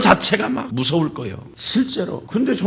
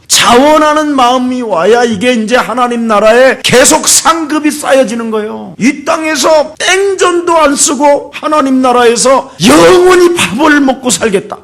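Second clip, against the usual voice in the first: high, driving pulpit exhortation; forceful preaching; 7 semitones higher, 5 dB louder than usual. Real, not acted. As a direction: build in pitch and force as you exhort. (점점 높아지는 힘찬 설교)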